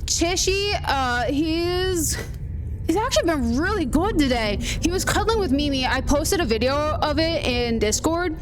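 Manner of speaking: put-on Scottish lilt; Scottish accent. Shown as a demonstration. Streamer answering chat about the week, Scottish accent. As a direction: keep up the Scottish accent casually. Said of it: "I could probably do a Scottish accent".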